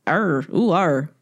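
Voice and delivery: lightly put-on West Country pirate accent; understated pirate accent impression; Long John Silver. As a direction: imitate a West Country pirate, half-heartedly. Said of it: "Long John Silver sounds like".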